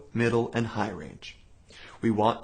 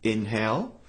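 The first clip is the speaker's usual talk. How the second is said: a sharp breath drawn in before the hold; audible inhale; 3 semitones lower than usual. Shown as a demonstration. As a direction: suck the air in so it is heard. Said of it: "Hold your breath like this".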